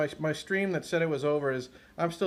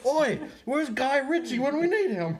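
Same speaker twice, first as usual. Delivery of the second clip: high-pitched Cockney shout-out; hammed-up Cockney, calling out; comic fake Cockney, pitched up; mock Cockney accent; 9 semitones higher, 3 dB louder than usual. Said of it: "like, a Cockney accent".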